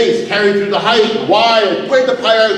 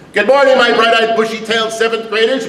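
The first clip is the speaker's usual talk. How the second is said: cheery teacher greeting; 2 semitones higher than usual. Pretend. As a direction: greet the class with fake cheer. Mock teacher opening class.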